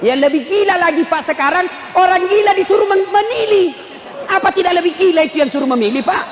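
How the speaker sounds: fired-up preaching. Acted. Preacher protesting to the congregation about madmen voting, fired-up. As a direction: preach it high and heated.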